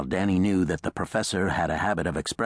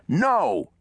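sharp, loud, high refusal; interrupting; 12 semitones higher, 5 dB louder than usual. A narrator's reading. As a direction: cut him off forcefully. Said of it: "Reese interrupted".

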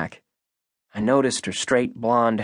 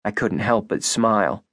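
plain reading voice

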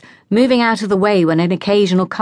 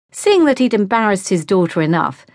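usual speaking voice

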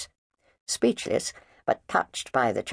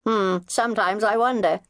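cheerful; 11 semitones higher, 4 dB louder than usual. Acted. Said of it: "her tone was cheerful".

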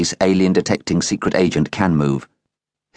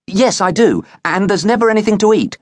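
put-on boy blurting out the prompted line, high and louder; boy's voice; 4 dB louder than usual. A narrator's reading. Boy repeating what his inner voice said, eager blurt. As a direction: parrot the whisper eagerly.

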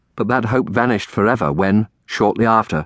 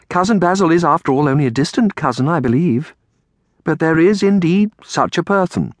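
higher, composed aunt voice; patient Aunt Felicia; 8 semitones higher than usual. Acted. Aunt explains unknown cousin to dear child, patient.

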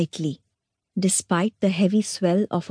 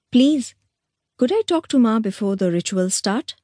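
sudden, higher, urgent plea; abrupt; 4 semitones higher than usual. Acted. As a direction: blurt it out, pressed. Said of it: "she said abruptly".

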